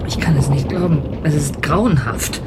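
hushed and shaken; frightened murmur at the horror; horrified whisper. Acted. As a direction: whisper in disbelief. Witness sees the creature.

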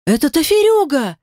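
high gasped exclamation; oh no, that one. A narrator's reading. Old woman gasps at the name of Death's mate, high. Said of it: "охнула Клавдия".

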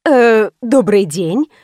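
slow, sugary smiling hello; smiling greeting. A narrator's reading. Salon owner greeting the witness, slow smiling. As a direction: sweeten it with a smile. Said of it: "улыбнулась она".

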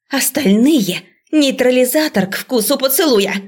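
high, urgent commands; frantic orders. A narrator's reading. Professor frantically ordering the students. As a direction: rush the class into action.

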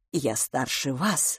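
тихо и медленно; смиренно признаться; quiet. A narrator's reading. Humble confession. (тихо, медленно)

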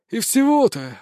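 outraged little jab; indignant. A narrator's reading. Beaten councillor scoffs at the small question, indignant. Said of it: "возмутился Хизовецкий".

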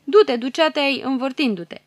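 the hero shouting after the fleeing villain; calling after him. Acted. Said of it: "strigă cât poate".

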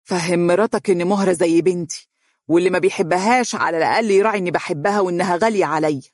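mild reproach, quickening; reproachful. Acted. Mother mildly reproaches Faris about his wife. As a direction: gently blame her son. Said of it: "وقالت بعتاب".

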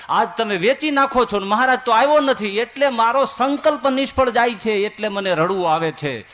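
tearful plea. Acted. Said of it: "બેનને ધ્રુસકું પડી ગયું".

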